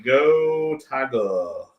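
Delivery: very slow, stretched "go Tigers"; drawn-out cheer. Pretend. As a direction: draw out the team cheer playfully. Playful cheer for L S U.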